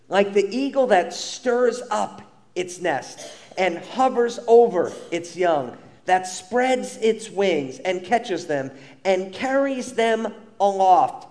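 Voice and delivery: slow, deliberate reading; scripture reading. Acted. Pastor reading the modern translation aloud, slow and deliberate. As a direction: lay out each action word slowly.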